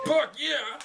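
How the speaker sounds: excited. Acted. Guards eagerly accept offer.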